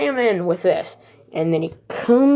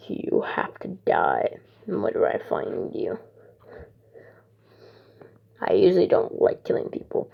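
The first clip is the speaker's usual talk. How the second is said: kind of mean; 12 semitones lower, 5 dB quieter than usual. Retold or imitated. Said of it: "so he's still kind of mean".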